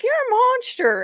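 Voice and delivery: high, loud retold outburst; shocked accusation. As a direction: fling it at her, appalled. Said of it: "And I'm like".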